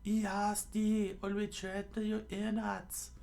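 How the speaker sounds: very high falsetto threat; high put-on pirate; mock pirate scream. A narrator's reading. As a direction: threaten in a squeaky pirate voice, not really screaming. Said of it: "one of the pirates screamed out".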